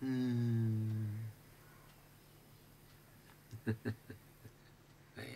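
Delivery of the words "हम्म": long drawn-out "hmm"; mock listener's hum. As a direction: hum one steady, held note. Mimics listeners sitting silently.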